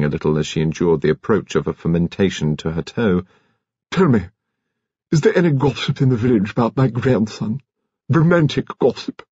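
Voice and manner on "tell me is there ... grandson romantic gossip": high-pitched lady of the manor; pry for gossip in a high character voice; imperious old lady. A narrator's reading.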